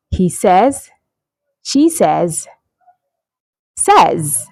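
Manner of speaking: "says" as sez, short e, in short examples; careful teacher's "says", pausing after each example; correct pronunciation. Shown as a demonstration. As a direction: model "says" to rhyme with fez. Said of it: "that's the correct pronunciation of that word".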